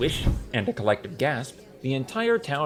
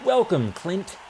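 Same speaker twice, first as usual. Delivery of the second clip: raised, mildly shouted cheer; crowd shout; 7 semitones higher, slower than usual. A narrator's reading. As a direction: call out like one of the crowd. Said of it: "There were shouts of".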